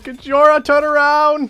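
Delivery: high, loud warning to a teammate; urgent shout. Real, not acted. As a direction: yell to make them turn.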